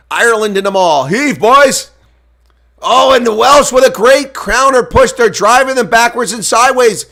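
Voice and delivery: pumped-up match commentary; excited play-by-play. Acted. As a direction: ride the action as it happens.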